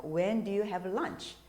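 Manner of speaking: very slow "When do you have lunch?"; slow classroom question; slow example. Shown as a demonstration. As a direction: read it out slowly. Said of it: "보통 우리가 많이 쓰죠".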